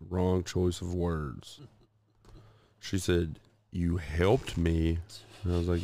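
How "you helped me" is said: slow, drawn-out incredulous echo; imitated disbelief. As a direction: stretch each word as his wife questioning him. Retold wife's disbelief at his words.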